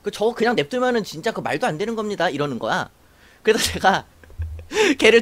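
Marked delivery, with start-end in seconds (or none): 0.0-2.3 mildly acted grumble of disgruntled subordinates; grumbling. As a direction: imitate soldiers grumbling. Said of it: "막 투덜투덜대면서".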